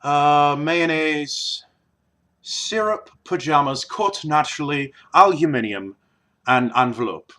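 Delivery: word list in an Irish accent. Shown as a demonstration. Vlogger showing how the word list sounds in Irish, Irish accent. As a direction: read the words with an Irish lilt. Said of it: "what it sounds like in a wee bit of Irish".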